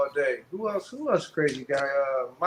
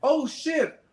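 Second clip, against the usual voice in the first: sudden realization; 5 semitones higher than usual. Retold or imitated. Realizing mid-fight.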